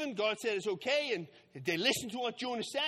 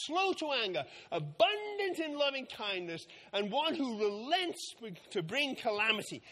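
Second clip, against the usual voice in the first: grumpy Jonah; 4 semitones higher than usual. Acted. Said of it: "He's mad".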